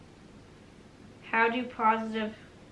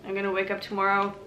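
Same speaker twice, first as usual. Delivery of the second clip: talking with a toothbrush in mouth; while brushing teeth. Real, not acted. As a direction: speak around a toothbrush. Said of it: "brushing my teeth at the same time".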